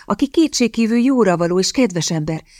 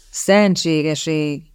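mock exclamation; much slower than usual. Exclamation in a put-on voice.

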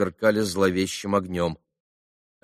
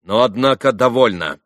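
louder, abrupt curt dismissal; curt cutoff; 3 semitones higher, 7 dB louder than usual. A narrator's reading. Ivan ending the quarrel, curt cutoff. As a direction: cut the talk off sharply. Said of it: "отрезал Иван".

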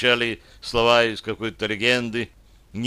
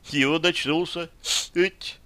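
sobbing; 6 semitones higher than usual. A narrator's reading. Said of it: "всхлипнула девушка".

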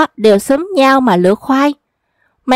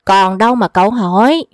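lower, laughing punchline; mocking chuckle; 3 semitones lower than usual. Old trickster mocking the rich young hunter, chuckling. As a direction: chuckle as you close the joke.

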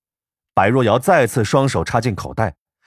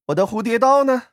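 put-on playful young man voice; 12 semitones higher than usual. Bai Ruoyao voiced by narrator.

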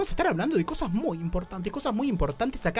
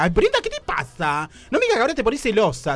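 teasing; 6 semitones higher, 6 dB louder than usual. Acted. Host teasing jealous crew.

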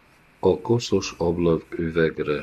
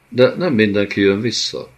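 sobbed; 4 semitones higher, 4 dB louder than usual. Acted.

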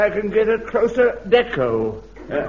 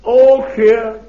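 calling from afar; 8 dB louder than usual. Acted. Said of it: "the faint cry of Godfrey's voice".

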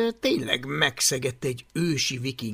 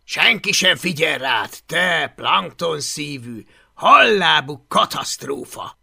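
mild mock hiss; 7 dB louder than usual. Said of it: "sziszegte Takonypóc".

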